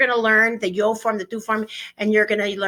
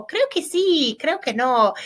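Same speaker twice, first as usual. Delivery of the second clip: example phrase; 6 semitones higher than usual. Shown as a demonstration. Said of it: "example phrases".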